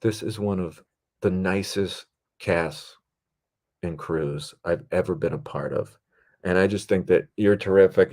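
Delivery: mildly earnest, measured retold speech; earnest praise. Actress thanks her director after a fake out, earnest praise. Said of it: "it was such a fake out".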